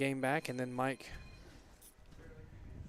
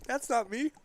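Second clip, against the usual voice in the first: imitating her voice; 7 semitones higher than usual. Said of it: "She said, she said".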